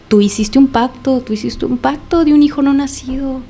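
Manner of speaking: imitated possessed accusation, slow and insistent; retold accusation. Imitating entity accusing terrified mother.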